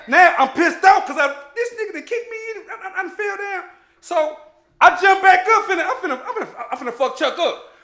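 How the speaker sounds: high, loud, laughing through the fight story; laughing while retelling. Retold or imitated. Old friend laughing retelling a childhood fight, high-pitched. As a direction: crack up while telling how mad you got.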